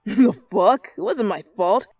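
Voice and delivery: loud laughing defensive snap; laughing protest. Acted. Katsuki protesting to his partner, laughing loud.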